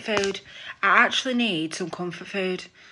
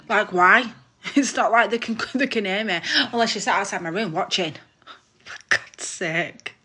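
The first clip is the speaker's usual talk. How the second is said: louder, breaking into laughs; laughing; 6 dB louder than usual. Real, not acted. Streamer amusing herself over nobody hearing her gossip, laughing. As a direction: laugh through the words, voice lifted. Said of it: "gotta make yourself laugh".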